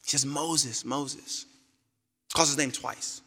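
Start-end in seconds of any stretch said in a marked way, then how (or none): 0.3-1.5 soft repeated call. Pretend. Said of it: "puts emphasis on it".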